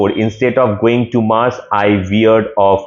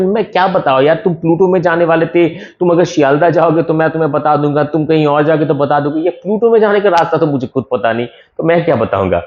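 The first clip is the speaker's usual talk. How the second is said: flustered Bonku Babu; 5 semitones higher, much faster than usual. Pretend. Voicing Bonku Babu's confused thoughts.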